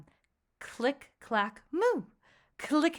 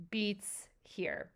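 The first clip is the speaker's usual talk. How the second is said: hushed; 8 dB quieter than usual. Shown as a demonstration. Teacher hushes counting the beats.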